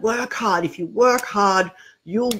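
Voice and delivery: lightly voiced grumpy old man; a hint of a stern grumbling elder. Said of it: "old grumpy man voice".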